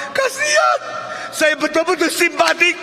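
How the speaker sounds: very high, loud sympathetic wail; hammed-up pitying passer-by; mock pity. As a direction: overdo the sympathy at high pitch. Mimics the second, pitying passer-by.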